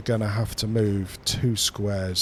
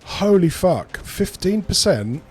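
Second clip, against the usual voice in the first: high, louder voice of disbelief; high-pitched; 9 semitones higher, 4 dB louder than usual. Real, not acted. Player reacts to fifteen percent odds, high-pitched. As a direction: squeak it out, pitched right up. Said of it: "He says in a high-pitched voice".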